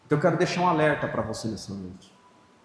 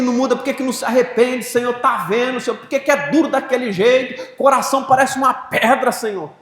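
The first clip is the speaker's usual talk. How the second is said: higher, louder whining plea to God; complaining prayer; 8 semitones higher, 5 dB louder than usual. Shown as a demonstration. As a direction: demo of how he prays, griping. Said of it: "Minha oração é desse jeito". (oração reclamando, mais aguda)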